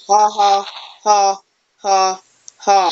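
slow, separated fake "ha"s; mock laugh. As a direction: gloat with a deliberate fake laugh. Taunts opponent with spelt-out laugh.

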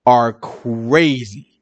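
exasperated retort. Retold or imitated. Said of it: "I said".

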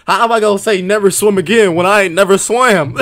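indignant. Real, not acted. Outraged at unfair question.

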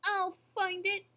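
slow, high, loud vow; crying out. A narrator's reading. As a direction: declare it with full determination. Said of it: "cried Horton".

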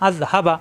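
আজ হাবা with হাবা kept short; don't linger on the vowels of হাবা; short quick vowels. Shown as a demonstration. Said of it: "হারকাতের উচ্চারণ তাড়াতাড়ি". (আজ হাবা, দেরি না করে)

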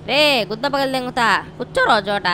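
angry threat to the dog. Real, not acted. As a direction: bark the order to sit.

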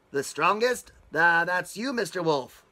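hurried, anxious agreement; nervous dwarfs. Acted. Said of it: "the little men said all together".

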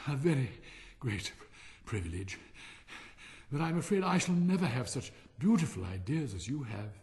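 lightly voiced humble Hans, halting; humble, worn-out Hans. Hans sits down and admires the miller, humble and halting. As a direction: pause between words as if winded.

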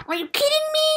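high breathy whisper of disbelief; shocked whisper. Real, not acted. Reacting to the lettuce pun, shocked whisper. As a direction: gasp it out in a whisper.

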